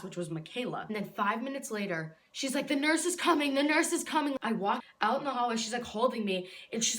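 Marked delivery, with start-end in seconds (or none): 2.7-4.4 higher, insistent mock alarm; imitated urgent announcement. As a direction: imitate someone urgently announcing help is coming. Teacher urgently announcing the nurse.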